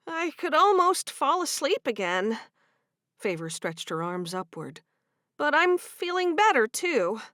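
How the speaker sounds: lightly voiced drowsy wife; young woman voice. Female character voice in story.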